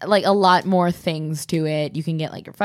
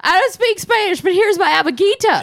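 hammed-up redneck voicemail greeting; insane hick answering machine; 12 semitones higher, 4 dB louder than usual. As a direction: whoop it up like a wild gator-farm cowboy. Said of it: "It could just go straight".

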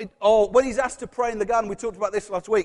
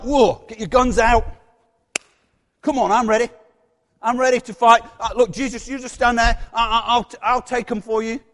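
loud, eager fighter's bluster; gung-ho bravado; 6 dB louder than usual. Acted. Peter offering to fight for Jesus, gung-ho bravado. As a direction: step up ready for battle, loudly. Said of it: "He's like".

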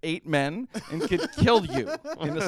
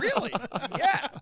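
high surprise; 4 dB louder than usual. Retold or imitated. Retold exchange, high voice.

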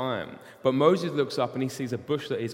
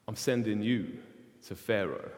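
grave voice of God; 3 semitones lower, 4 dB quieter than usual. Acted. God sends Moses to Pharaoh.

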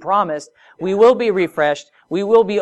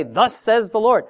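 higher, ringing prophetic proclamation; prophet's formula; 5 semitones higher than usual. Shown as a demonstration. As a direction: announce it like a prophet. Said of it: "the prophets would say".

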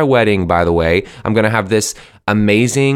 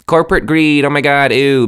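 higher-pitched mimicry of disgusted people; imitating someone grossed out; mock outraged complainer; 5 semitones higher, 4 dB louder than usual. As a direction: put on exaggerated disgust, pitched up. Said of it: "one of the people that's like".

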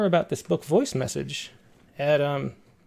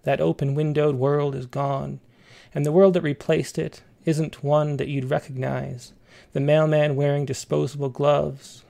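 measured, even poetry reading; poem reading. Acted. Reads a poem aloud.

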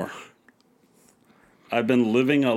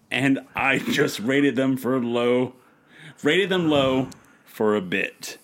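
mock serious apology. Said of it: "Serious face".

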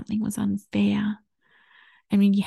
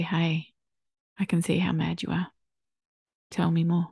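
calm reassurance. Retold or imitated. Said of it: "look us in the eye and say".

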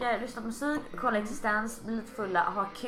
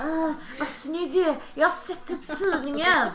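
sleazy flirt; 8 semitones higher, 4 dB louder, slower than usual. Retold or imitated. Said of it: "Och bara".

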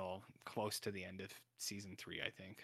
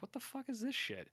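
much higher, mock-exasperated outburst; hammed-up disbelief; baffled outrage; 12 semitones higher, 4 dB quieter than usual. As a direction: replay your own WTF moment. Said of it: "I was like".

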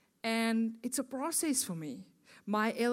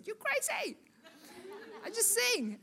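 laughing; 12 semitones higher than usual. Retold or imitated. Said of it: "And I said".

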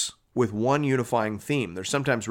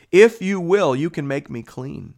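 high, loud opening that falls away; lightly acted begging while reading; plead, then let it drop; imploring plea; 5 semitones higher, 6 dB louder, slower than usual. A narrator's reading. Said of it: "imploring him".

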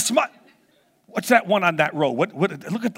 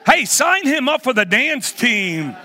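laughing; 3 semitones higher, slower than usual. Real, not acted. Laughing at Greg's dance.

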